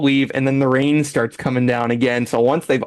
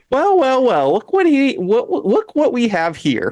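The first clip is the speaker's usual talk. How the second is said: taunting Courtney; 9 semitones higher than usual. Retold or imitated. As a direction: lord it over him in a high voice. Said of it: "she's like".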